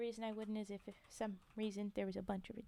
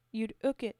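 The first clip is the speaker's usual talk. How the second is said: Cockney "ook", H dropped; Cockney phrase with "ook" for hook; Cockney accent; 8 dB louder than usual. Acted. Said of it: "Cockney British one".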